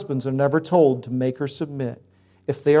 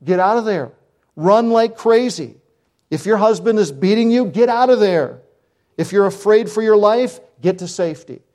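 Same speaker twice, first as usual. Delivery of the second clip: rising, louder urgency, slowed on run like crazy; urgent retold warning; 4 semitones higher, 4 dB louder than usual. Pastor retelling his phone warning to a frightened wife, urgent. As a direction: tell her firmly to run now. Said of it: "I just said".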